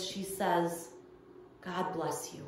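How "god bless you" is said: put-on soft, quiet old woman's voice; a hint of a frail elderly lady; frail little voice. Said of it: "in her frail little voice".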